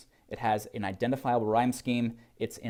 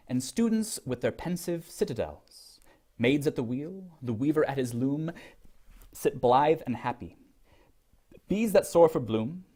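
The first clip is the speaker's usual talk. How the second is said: poetry reading. Acted. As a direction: read it like a poem, with care. Reads poem aloud.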